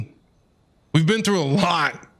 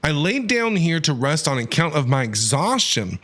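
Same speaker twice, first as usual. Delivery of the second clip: measured dramatic letter reading; Nagato's letter; 3 semitones lower than usual. Acted. Player reading a wounded man's letter, mildly theatrical narration. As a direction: read the letter out with mock gravity.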